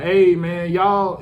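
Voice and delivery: echoing voice. Retold or imitated. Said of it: "when I'm talking, I hear echo".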